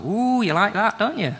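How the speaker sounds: high, camp bedroom teasing. Acted. Beginner's line during sex, high camp teasing. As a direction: tease it with a camp lilt. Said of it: "Not as camp as I do it".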